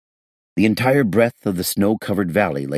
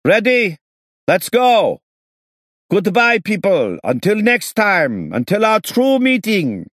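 very loud, high barking shout; booming bark; 6 dB louder, slower than usual. Acted. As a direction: bark it out with inhuman loudness. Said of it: "barked with inhuman loudness".

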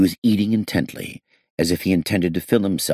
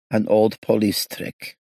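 bitter mumble; 5 semitones higher, slower than usual. Acted. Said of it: "he mumbled bitterly".

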